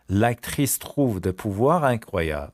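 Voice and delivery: l'actrice trouve des pouvoirs incroyables said very slowly; very slow model. Shown as a demonstration. Teacher to class, very slow model. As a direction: stretch every word. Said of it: "slow model phrase".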